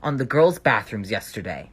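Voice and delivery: loud, officious intercom announcement; stern vice principal. Retold or imitated. Vice principal over the intercom punishing students, loud stern announcement. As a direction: lay down the law to the whole school. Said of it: "she continued on to say".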